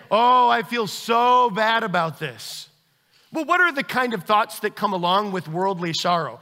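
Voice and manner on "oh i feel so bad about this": mock remorse. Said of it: "If you can all of a sudden say".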